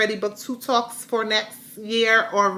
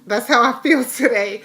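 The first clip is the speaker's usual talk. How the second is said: laughing; 3 semitones higher, 7 dB louder than usual. Real, not acted. Joke lands, she laughs.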